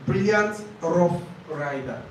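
Brilliant rough rider read slowly, like a listening test; teacher reading a test example slowly to students; slow dictation read. Shown as a demonstration. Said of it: "when you hear something like".

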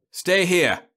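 loud, high sharp order; loud sharp command; snapped. A narrator's reading. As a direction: snap it at the old man. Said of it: "Kroll snapped it at the old man".

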